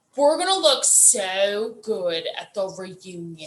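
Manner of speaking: put-on deep mid-Atlantic accent, drawn-out "so". Discussing a woman's crazy accent, imitating her deep mid-Atlantic accent. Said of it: "she does like a deep voice".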